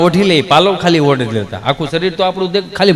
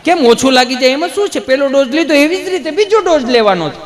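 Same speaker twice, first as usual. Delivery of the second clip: higher, puzzled nurse voice; lightly voiced nurse; 7 semitones higher than usual. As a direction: ask back gently, a little high. Nurse answers the weepy man. (નર્સ બેનનો થોડો ઊંચો, નવાઈભર્યો અવાજ)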